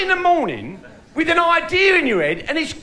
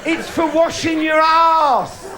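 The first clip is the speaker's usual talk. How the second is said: wife's shout; much slower than usual. Retold or imitated. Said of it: "She said".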